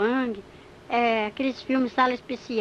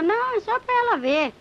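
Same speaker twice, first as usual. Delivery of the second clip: higher, taunting devil voice; mocking devil; 10 semitones higher, 3 dB louder than usual. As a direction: tease her, devil showing off. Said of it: "Ele falou". (diabo zombeteiro em voz mais aguda)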